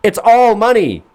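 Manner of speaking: cracking up at the advice; laughing disbelief. Real, not acted. Laughing repeat.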